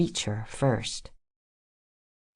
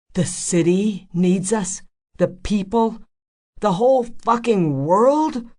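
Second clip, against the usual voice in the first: angry mockery; 7 semitones higher, 4 dB louder than usual. A narrator's reading. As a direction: sneer at her cause. Freecloud mocks her cause.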